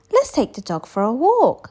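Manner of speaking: high, loud little skeleton; a small bony figure eager for mischief. A narrator's reading. Little skeleton urges a walk, in a high eager voice. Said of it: "said the little skeleton".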